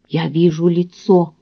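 hollow, lifeless voice from beyond; sepulchral voice. Acted. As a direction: speak like a voice from the grave. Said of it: "загробным голосом произнесла она".

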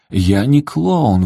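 high, slow, stretched protest; exclaiming. A narrator's reading. Sol protests to his son, high and slow. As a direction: draw out each word, voice lifted. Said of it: "воскликнул Сол".

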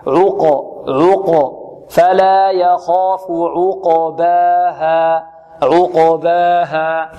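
slow chant, "عقباها" with a qaf bounce leaning to no vowel; careful recitation of "عقباها", rounded ayn and bounced qaf; neutral qalqala on qaf. Shown as a demonstration. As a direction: release ق in "عقباها" with a clean echo. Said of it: "لا تميل إلى ضم ولا إلى فتح".

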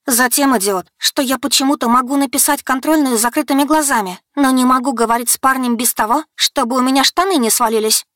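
high, heated retort; high-pitched outburst at an idiot; exasperated heroine. A narrator's reading. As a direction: blurt out the confession angrily. Heroine blurts out answer.

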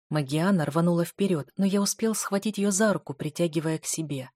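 usual speaking voice

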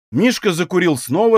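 ordinary delivery

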